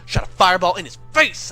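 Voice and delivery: pissed off. Retold or imitated. Jimmy catches him poisoning the soup, mildly acted anger building. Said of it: "and he was pissed".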